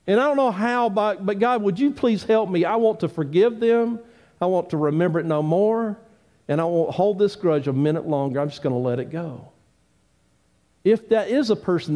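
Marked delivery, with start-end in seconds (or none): 0.0-9.5 heartfelt prayer. Acted. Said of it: "get along with God and say".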